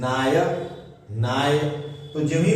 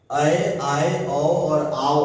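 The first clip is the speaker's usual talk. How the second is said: slow sounding out; much slower than usual. Shown as a demonstration. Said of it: "पहले उच्चारण के लिए".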